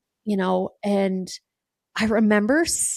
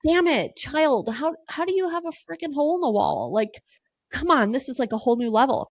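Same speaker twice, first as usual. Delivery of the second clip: high-pitched exasperated mother; retold exasperation; 5 semitones higher than usual. Mother reacting to hole in bedroom wall, high exasperated scolding.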